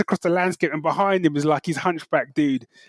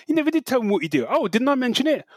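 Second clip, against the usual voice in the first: higher, hammed-up movie exchange; acted film dialogue; 5 semitones higher than usual. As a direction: play out the cheesy big reveal. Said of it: "And she's like".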